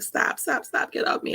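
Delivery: high, breathless whispered stop, stop; frightened whispered begging; whispered plea. Retold or imitated. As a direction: beg someone to let go in a hushed whisper. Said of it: "I'm just like".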